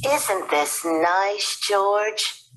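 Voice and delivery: a contented wife, savoring the moment; cheerful mother. Acted. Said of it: "said Missus Lambchop".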